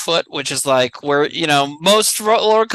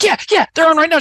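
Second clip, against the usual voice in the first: higher, eager attendant voice; imitating ride attendant; 9 semitones higher, 4 dB louder, faster than usual. Attendant pulling kid into the show, lightly voiced eager. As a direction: chirp like a pushy ride worker. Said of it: "She's like".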